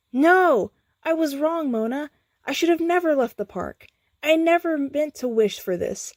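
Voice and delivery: high, distressed plea of regret; desperate to undo it; regretful. A narrator's reading. Skips regrets his wish.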